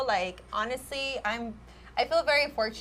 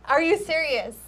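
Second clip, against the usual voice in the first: louder, higher "are you serious", stunned; shocked disbelief; 4 semitones higher, 4 dB louder than usual. Retold or imitated. Stylist hearing a client's complaint, shocked disbelief. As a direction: react like you can't believe it.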